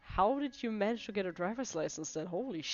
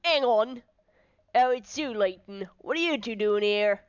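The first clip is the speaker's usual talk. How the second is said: commanding inspector, easing into recognition; officious police inspector; 5 semitones higher, 7 dB louder than usual. Acted. Inspector stops Layton at crime scene, officious. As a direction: warn off intruders with authority.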